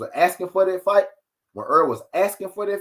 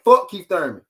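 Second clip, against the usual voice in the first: retold curse; 3 semitones higher, 6 dB louder than usual. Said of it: "That man said".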